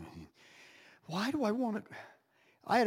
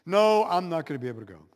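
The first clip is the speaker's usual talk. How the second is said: quick dismissal; 6 dB louder, faster than usual. Retold or imitated. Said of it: "fired off a quick email and said".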